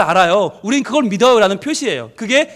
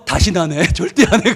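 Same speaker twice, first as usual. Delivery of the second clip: normal talking voice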